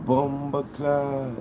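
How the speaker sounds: high, drawn-out mock yell without extra volume; mock scream. Reading out a Nigerian friend's screamed curse, mock scream. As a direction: stretch it out high like a hammed-up cry. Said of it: "Wait, a Nigerian screaming".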